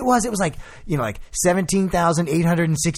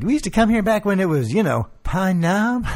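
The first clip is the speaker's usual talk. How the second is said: imitating Daryl; 5 semitones higher than usual. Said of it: "Daryl's like".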